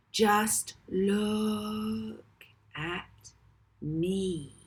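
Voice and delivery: very slow, drawn-out and hypnotic; slow, magnetic. A narrator's reading. Molly hypnotises the audience, slow magnetic voice. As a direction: pull them in word by word, slowly. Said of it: "she repeated slowly, her voice like a vocal magnet".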